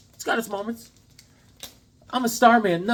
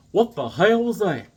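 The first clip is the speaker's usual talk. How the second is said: loud, high baffled exclamation; hammed-up stunned cop; mock bewilderment; 6 semitones higher, 6 dB louder than usual. Retelling cops watching the hero vanish, mock bewilderment.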